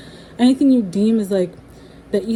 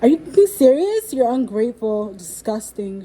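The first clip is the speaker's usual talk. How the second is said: mother's outburst; 2 semitones higher, 5 dB louder than usual. Retold or imitated. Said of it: "She's like".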